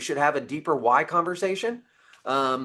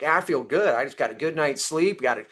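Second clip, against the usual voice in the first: upbeat mock boasting, higher pitched; feeling good; 3 semitones higher than usual. Contractor crowing about a good day, upbeat and lifted. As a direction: brag lightly, as if riding a good day. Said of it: "We love to hear it when we're like".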